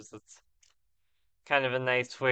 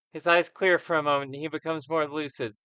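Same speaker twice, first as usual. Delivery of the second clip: lightly raised storyteller read of game text; dramatic narration; 3 semitones higher than usual. A narrator's reading. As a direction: read it like a game master setting the scene. Reads game text aloud.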